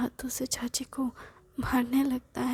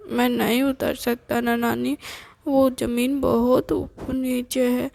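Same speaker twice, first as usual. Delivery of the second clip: put-on scared child; 6 dB louder than usual. Boy pleads he cannot get down. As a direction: whine like a kid afraid to jump.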